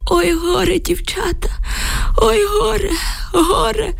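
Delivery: put-on high, keening old man's wail; wailing lament. A narrator's reading. Old neighbour bursting in with bad news, wailing. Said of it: "заголосив він".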